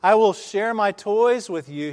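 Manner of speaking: high, loud call; boy calling out across the valley. Retold or imitated. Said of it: "he called out".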